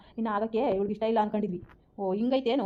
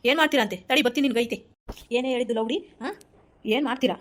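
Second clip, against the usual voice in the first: furious threat; 3 semitones higher, 3 dB louder than usual. Acted. Mother threatens daughter.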